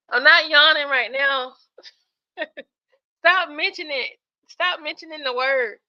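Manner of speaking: loud, laughing denial; half-laughing plea to stop bringing it up; laughing protest. Real, not acted. Denies yawning, breaks into laughter.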